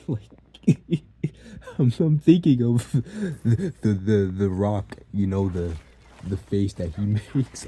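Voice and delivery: high, loud laughter breaking into the words; cracking up. Real, not acted. Storyteller picturing mom's face like the Rock's, cracking up. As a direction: talk through a real fit of giggles.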